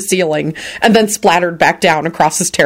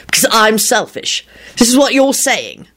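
higher, incredulous check; disbelieving; 5 semitones higher than usual. A narrator's reading. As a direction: spell it out in disbelief. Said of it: "Lupin said disbelievingly".

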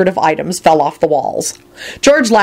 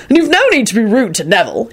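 stern; 5 semitones higher than usual. Acted. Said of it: "in quite a different tone".

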